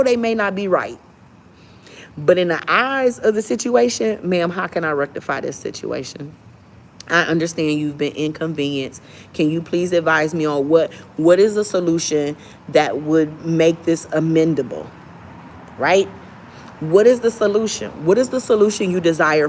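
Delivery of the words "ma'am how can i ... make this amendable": polite service voice. Shown as a demonstration. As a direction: speak like a patient customer service agent. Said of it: "demonstrates polite agent voice".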